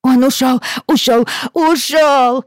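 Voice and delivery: high, loud sobbing wail; child wailing. Acted. Little girl wailing to her father, high and loud. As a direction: cry it out in despair.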